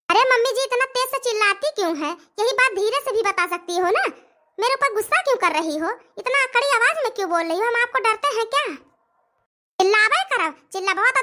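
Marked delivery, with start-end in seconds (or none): 0.1-8.6 higher, aggrieved daughter-in-law voice; daughter-in-law objects to mother-in-law's shouting, higher and indignant; indignant young bride. Acted. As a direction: push back, hurt and higher. Bride protests mother-in-law's yelling.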